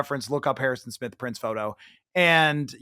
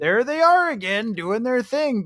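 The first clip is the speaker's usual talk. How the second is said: put-on northern Minnesota accent; 8 semitones higher than usual. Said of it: "a northern Minnesota accent".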